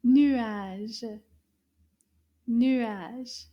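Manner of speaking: nuage with rounded French u, rising; repeat the word. Shown as a demonstration. Teacher repeating nuage for children, clear u. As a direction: say nuage again for kids. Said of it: "Let's say it one more time".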